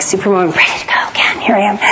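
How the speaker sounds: quick half-whispered mock cheer; tossed-off imitation of a ready superwoman. Wife mocking what husband expected, quick whispered superwoman. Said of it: "expecting me to come home and be like".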